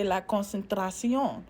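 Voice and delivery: "la concentración" as in a Spanish class, stress on the last syllable; "la concentración" in Spanish, not English; Spanish pronunciation. Shown as a demonstration. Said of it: "To say concentration in Spanish".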